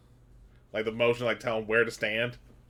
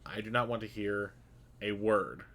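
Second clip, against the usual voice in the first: quiet seething anger. Acted. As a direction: menace kept under the breath. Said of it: "he is seething, but he is keeping his volume at a normal tone".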